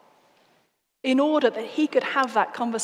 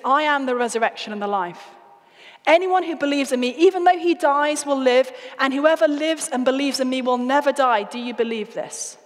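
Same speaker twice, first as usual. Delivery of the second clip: rising, louder proclamation of hope; proclaiming loudly; 2 semitones higher, 4 dB louder than usual. Acted. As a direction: announce it with building force. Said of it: "the most extraordinary and outrageous words".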